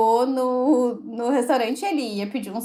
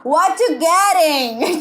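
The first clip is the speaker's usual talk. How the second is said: drawn-out, louder "What you getting?"; slow loud question; 3 semitones higher, 5 dB louder, much slower than usual. Retold or imitated. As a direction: spell it out slowly and loudly to a confused customer. Waiter asks slowly, loudly.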